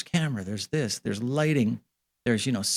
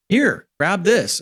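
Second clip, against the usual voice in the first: higher, louder and slow, like a keen crew guy handing over gear; drawn-out, upbeat imitation of a helper; eager mock offer; 8 semitones higher, 6 dB louder, much slower than usual. Retold crew member handing him gear.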